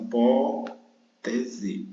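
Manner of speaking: hipótese said slowly with gaps between syllables; split into syllables. Shown as a demonstration. Teacher showing how the word divides, slow syllable split of hipótese. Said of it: "a separação".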